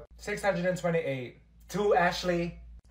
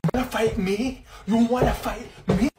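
mock fight challenge; 5 semitones higher, 6 dB louder than usual.

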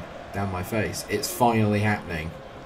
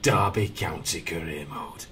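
slow northern show announcer; Sean impression; 3 dB quieter, slower than usual. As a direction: drag out the intro in a put-on northern voice. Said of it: "I sound like Sean".

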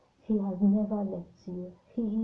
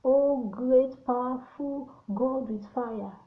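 louder and slow, mock-solemn address to God; mock grand prayer; 3 semitones higher, 3 dB louder, slower than usual. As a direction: ham up an overly grand prayer. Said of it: "he didn't teach us to say".

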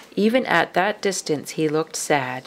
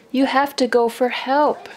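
urgent plea; 6 semitones higher than usual. Acted. Mother urging from the mud.

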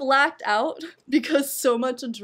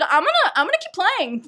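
excited high shout; 8 semitones higher, 6 dB louder than usual. Retold or imitated. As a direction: shout it out, thrilled. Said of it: "I shouted".

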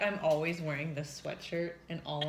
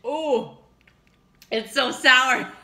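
higher, louder, slow puckered ooh; sour shock; 7 semitones higher, 13 dB louder, much slower than usual. Real, not acted. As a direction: react to a mouth-puckering sour bite. Biting sour pickle pop.

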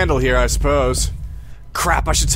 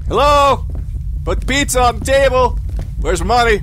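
calling out; 5 semitones higher than usual. Real, not acted. Calling out in house.

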